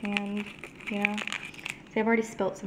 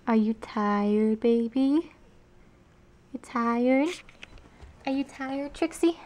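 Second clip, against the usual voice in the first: cooing to pet; slower than usual. Real, not acted. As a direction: soothe the dog gently. Cooing to the dog.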